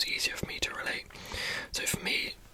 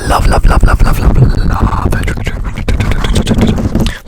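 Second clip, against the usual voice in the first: excited whisper; 19 dB louder, slower than usual. Real, not acted. Gushing over favourite triggers.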